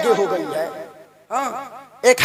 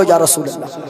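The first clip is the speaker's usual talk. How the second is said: low, steady call of या रसूल अल्लाह with hands raised; devotional call; 8 semitones lower than usual. Shown as a demonstration. Preacher leads crowd with hands raised, steady devotional call. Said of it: "जरा हाथों को उठाकर बोलो".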